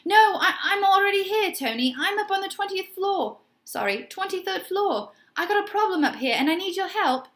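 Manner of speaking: high, fast, a touch desperate; hint of desperation. A narrator's reading. Mister Music pleading with Tony, a hint desperate. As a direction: plead for help, barely hiding panic. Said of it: "tiniest hint of desperation".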